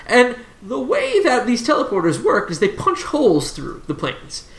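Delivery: lightly voiced lecturing professor. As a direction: explain the cosmos as a professor, lightly in character.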